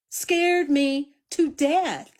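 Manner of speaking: slow, high, drawn-out scared stress; retold fright. Reliving the coyote noise for the chat, slow mock fright. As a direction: stretch it out like you're still spooked.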